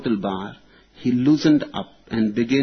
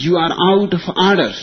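fast, loud and higher gavel rebuke; stern exclamation; 6 semitones higher, 5 dB louder, much faster than usual. Retold or imitated. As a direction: snap it out like a chairman calling order. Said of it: "and exclaimed".

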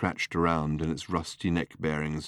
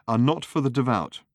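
little lady voice; 7 semitones higher, 4 dB louder than usual. A narrator's reading. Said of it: "said the little lady severely".

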